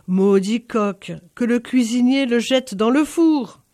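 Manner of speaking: loud, slow furious command; loud slow lord cursing the rooster; angry order. Acted. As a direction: bark the curse at the servant. Angry barine orders the cook.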